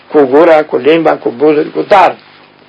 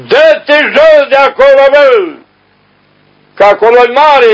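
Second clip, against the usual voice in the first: scolding rebuke; 10 semitones higher, slower than usual. Retold or imitated. Elder rebukes a monk.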